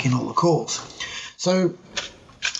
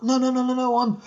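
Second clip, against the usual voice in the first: higher-pitched, insistent British record man, lightly imitated; persuasive Pommy caller; 6 semitones higher than usual. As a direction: plead your case as an English caller. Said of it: "he's trying to convince me".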